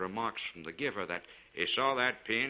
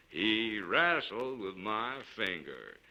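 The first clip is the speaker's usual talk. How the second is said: a tough man secretly delighted; gruff miner, pleased; slower than usual. A narrator's reading. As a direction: Kane Tuck showing Tipton his finger, gruffly pleased. Kane Tuck showing off his finger.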